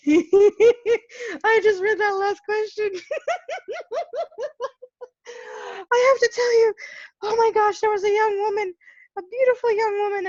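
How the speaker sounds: high-pitched laughing through the words, close to tears; laughing hard. Real, not acted. Reading a viewer question aloud, she cracks up laughing. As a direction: laugh helplessly while getting the words out.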